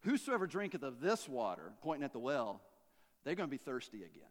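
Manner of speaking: calm, low and soft reply; unshaken. Acted. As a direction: answer unruffled, quietly sure. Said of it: "He's not shaken by that at all".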